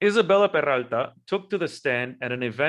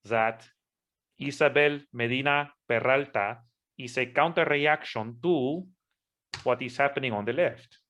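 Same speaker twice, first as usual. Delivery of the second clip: hammed-up Spanish accent. Speaking to YouTube in a lightly put-on Spanish accent. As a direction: play up a Spanish accent while clarifying, only lightly. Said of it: "I am going to use my Spanish accent".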